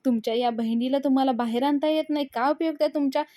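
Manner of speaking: lightly acted angry taunt; mock shouting. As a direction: taunt him, half-hearted yell. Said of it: "असं म्हणून तो ओरडत असतो".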